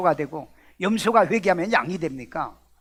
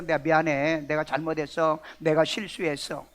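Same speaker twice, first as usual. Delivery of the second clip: acted apology; 4 semitones lower, 4 dB quieter than usual. Acting an apology to someone.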